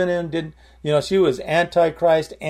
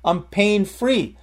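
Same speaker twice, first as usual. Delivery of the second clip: retold excited cry, building louder; excited calling out; 4 dB louder than usual. Healed patient calls the nurses in, excited calling out. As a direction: call out the news, bursting louder at the end. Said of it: "she yelled at the, she called".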